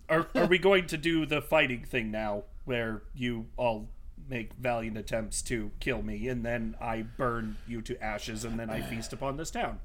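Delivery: low, slow villain voice; unhurried, quietly menacing monster of a foe. Acted. Villain threatens the party.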